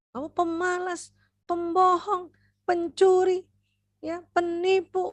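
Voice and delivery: high, rattled-off list of insults; mock scolding. Shown as a demonstration. Mother labelling her child, high mock scolding. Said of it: "pernah ngomong kayak gitu".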